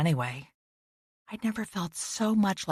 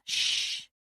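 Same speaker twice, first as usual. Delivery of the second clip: soft hushed warning, quick; hushing; 4 semitones higher, 6 dB quieter than usual. A narrator's reading. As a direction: shush him softly. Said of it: "I put my finger to my lips".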